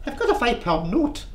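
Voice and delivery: half-hearted Scottish widow; attempted Scottish accent. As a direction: have a poor go at a Scottish accent. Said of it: "I can't do a Scottish accent".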